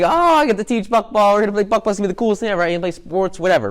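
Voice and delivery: lightly voiced gushing sports fan; pumped Rainbow Dash. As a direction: bounce with excitement about the game. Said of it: "She's like".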